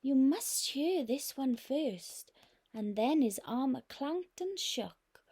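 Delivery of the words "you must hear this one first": startled knight. Acted. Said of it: "who told the dragon".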